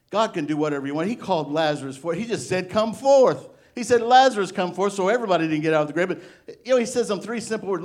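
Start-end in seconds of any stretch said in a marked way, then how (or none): 2.7-3.5 higher, louder command; Jesus commanding Lazarus, a loud call. Retold or imitated. Jesus calling Lazarus from grave. 4.0-4.9 higher, louder command; Jesus commanding Lazarus, a loud call. Retold or imitated. Jesus calling Lazarus from grave.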